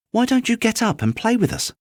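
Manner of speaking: high, bouncy rabbit voice; a playful little creature teasing; wild rabbit. Acted. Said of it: "one of them asked".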